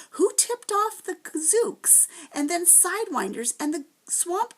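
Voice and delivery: angry yelling. A narrator's reading. Tom yells at the towering Proc in fury, high and loud. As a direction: hurl the accusations back at him. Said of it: "he yelled at the towering Proc".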